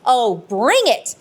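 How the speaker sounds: slow, drawn-out "bring it"; retold defiant challenge. Medium daring the spirit to come, defiant. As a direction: dare them, stretching the words. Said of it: "I was really feeling angry".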